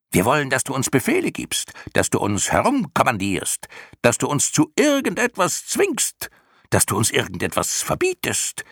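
high-pitched, insistent clown screech; screeched chorus. A narrator's reading. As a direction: demand shrilly as a swarm of clowns. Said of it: "der Chor der Clowns kreischte zurück". (hohes, forderndes Kreischen)

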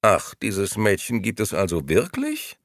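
mildly astonished question; a touch of surprise. Acted. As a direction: sound mildly taken aback. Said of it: "fragte die dritte Dame erstaunt".

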